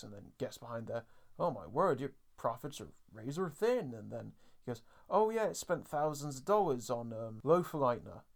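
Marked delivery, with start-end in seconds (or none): 1.4-3.9 camp hairdresser. Retold or imitated. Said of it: "camp hairdresser type". 5.1-8.2 camp hairdresser. Retold or imitated. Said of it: "camp hairdresser type".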